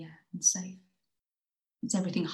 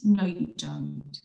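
loud protest; 6 dB louder, slower than usual. Acted. Acted quarrel inside the poem.

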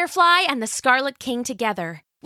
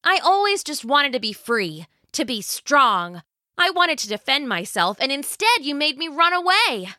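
put-on higher, fast, bitter girl; resentful teen rant; 5 semitones higher than usual. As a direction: unload years of grievance. Jill's resentful outburst at mother.

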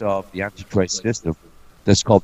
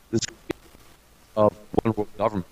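choppy audio cutting out; broken-up call audio; bad connection; faster than usual. Real, not acted. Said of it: "Oh, you're cutting out big time".

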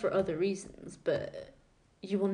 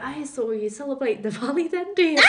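a light mimic of an old man's English accent, a bit higher and louder; imitating his accent; 6 semitones higher, 8 dB louder than usual. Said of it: "Oh, I'm sorry for the accent".

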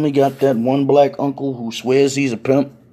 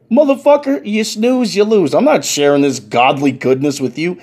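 mock outraged refusal; 4 semitones higher, 5 dB louder than usual. Guest refuses to share plate.

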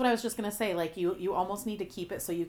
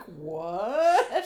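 laughing; 3 dB louder than usual. Real, not acted. Listener laughing while echoing husband.

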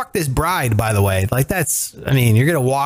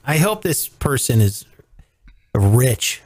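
whispered aside; 5 semitones lower, slower than usual. Real, not acted. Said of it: "conspiratorial aside".

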